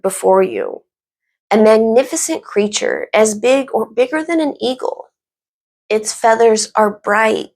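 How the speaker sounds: measured, even storytelling with reflective pauses; guided visualization. Acted. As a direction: gently lead listeners through an imagined scene. Leads an imagined phoenix visualization.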